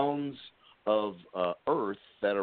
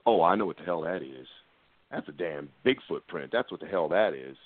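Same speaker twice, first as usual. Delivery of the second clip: lower, knowing country deputy voice; a lawman who's seen it all, voiced lower; imitating a deputy; 4 semitones lower than usual. Deputy recognizes the Bigfoot print, lower and knowing. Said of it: "He goes".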